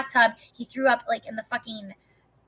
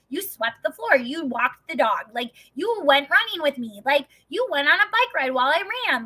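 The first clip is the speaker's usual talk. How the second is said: patronizing praise; 4 semitones higher than usual. Retold or imitated.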